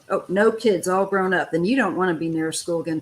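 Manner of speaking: ordinary talk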